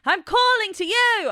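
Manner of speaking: high, drawn-out calling voice; belted call. Shown as a demonstration. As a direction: call out high and sustained, like belting. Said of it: "Belting is a loud sound".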